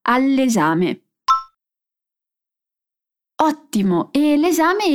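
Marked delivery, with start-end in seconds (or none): 0.0-1.0 "All'esame" slow, L flowing into the E; slow linking. Shown as a demonstration. Teacher repeating the phrase for students, slow and linked. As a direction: say "All'esame" slowly as one word. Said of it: "Ripeti con me".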